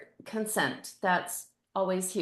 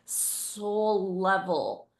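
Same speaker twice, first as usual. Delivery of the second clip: crying; slower than usual. Real, not acted. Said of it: "I'm crying".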